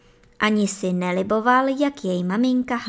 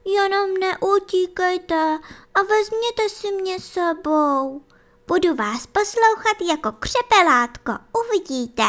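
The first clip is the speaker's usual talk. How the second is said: put-on high, eager child's voice promising to be good; little hare voice; 8 semitones higher than usual. Little hare convincing his mother he's grown, eagerly. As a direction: show off proudly like a small child.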